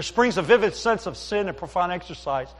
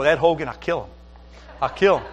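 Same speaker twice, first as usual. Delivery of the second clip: mock anger; 5 dB louder than usual. Joking threat at friend whose prayer worked.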